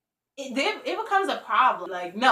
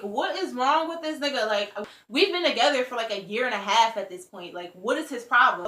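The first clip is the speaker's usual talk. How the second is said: irritated. Retold or imitated. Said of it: "I'm, like, really irritated".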